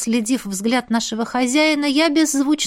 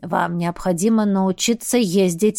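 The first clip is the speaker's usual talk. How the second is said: put-on low old man voice; 4 semitones lower than usual. Old shaman instructs.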